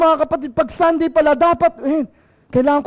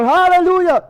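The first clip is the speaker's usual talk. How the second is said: sudden praise shout; 3 semitones higher than usual. Retold or imitated. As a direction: call out praise in the street. Retold praise cry in public.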